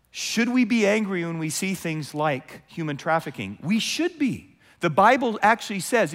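normal talking voice

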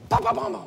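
loud rapid ba ba ba of an automatic rifle; gunfire sound. Retold or imitated. Preacher imitating rifle fire, loud staccato bursts. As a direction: spit out the burst of a machine gun.

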